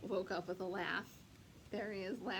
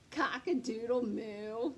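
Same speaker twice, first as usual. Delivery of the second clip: loud cheerful crow-moo; 6 dB louder, slower than usual. Acted. Farm crowing together.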